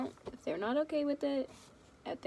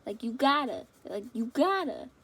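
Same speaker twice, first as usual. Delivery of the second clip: hyped urging; 7 dB louder than usual. Retold or imitated. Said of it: "I'm like".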